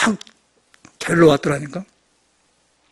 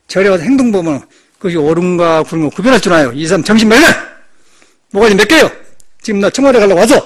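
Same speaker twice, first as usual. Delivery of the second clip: loud, forceful dressing-down; loud angry rebuke of the clerks; retold scolding; 7 dB louder than usual. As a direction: tear into the officials. Monk scolding officials, retold.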